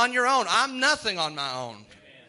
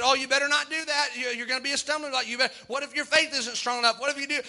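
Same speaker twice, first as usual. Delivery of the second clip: mock devil; 5 semitones higher than usual. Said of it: "He said".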